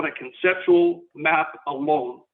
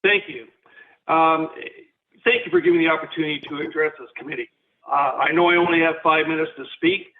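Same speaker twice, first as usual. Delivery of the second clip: phone speaker. Real, not acted. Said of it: "Can you hear me on my speaker?".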